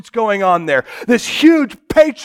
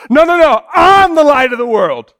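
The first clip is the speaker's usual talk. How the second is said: louder, insistent no no no; emphatic Jesus; 4 semitones higher, 4 dB louder than usual. Acted. Jesus interrupting the celebration, insistent and raised. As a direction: stand up and insist. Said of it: "I kinda like that version".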